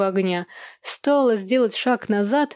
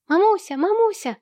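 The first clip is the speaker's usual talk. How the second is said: put-on children calling; 11 semitones higher than usual. Children calling their mother.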